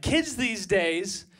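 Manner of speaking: slow, mock old-timer grumble; old man grumbling. Comic playing a seventy-year-old complaining about youth, slow grumble. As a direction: drag it out like a grumpy old man. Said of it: "things like a seventy-year-old should say".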